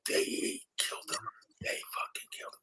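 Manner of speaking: put-on hushed, near-tearful whisper in a crisp English accent; upset English whisper. English teacher to her student, whispering in shock and a crisp English accent. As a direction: breathe it in a crisp English accent, close to tears. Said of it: "very crisp English accent".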